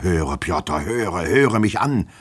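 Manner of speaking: slow, drawn-out plea rising in pitch; desperate pleading. A narrator's reading. Master wringing his hands before his servant, pleading desperately. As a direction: beg to be heard. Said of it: "rang die Hände vor Verzweiflung".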